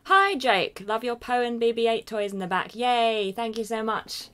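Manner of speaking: loud, high, delighted cheer; excited greeting. Real, not acted. Streamer greeting Jake and thanking him, excited.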